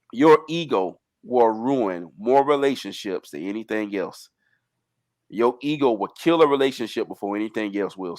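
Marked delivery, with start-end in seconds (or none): 0.1-4.2 slow, deliberate delivery. Giving the fellas relationship advice, speaking slowly. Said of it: "I'm gonna say this slowly".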